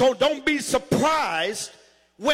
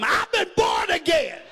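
raised, shouted preacher's declaration; rousing shout for the congregation to copy; hollered testimony; 3 semitones higher than usual. Shown as a demonstration. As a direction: holler it out to your neighbor. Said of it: "holler at somebody and tell them".

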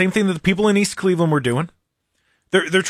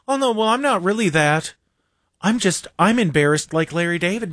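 lightly voiced, higher whiny mock; mock a fake-humble leftist, high and whiny; mock socialist; 4 semitones higher than usual. Host mocking leftists who echo Larry David, high whiny mock voice. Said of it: "sitting there going".

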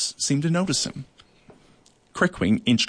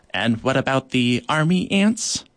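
worried ant; 3 dB louder than usual. Acted. Gravel worrying aloud.

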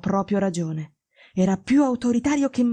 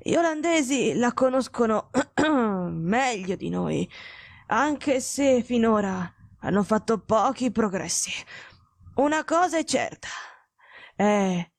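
a dying detective warning Watson away; feverish invalid; slower than usual. Acted. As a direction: speak like a man burning with fever. Holmes's sickbed voice.

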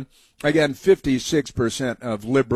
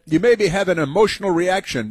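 sing-song mock of the woman; mocking whiny woman; 6 semitones higher than usual. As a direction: mimic her complaint in a high whine. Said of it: "she said".

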